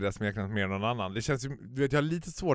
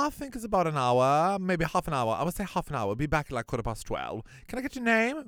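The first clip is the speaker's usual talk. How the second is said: mock hostess; 5 semitones higher than usual. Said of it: "Hon bara".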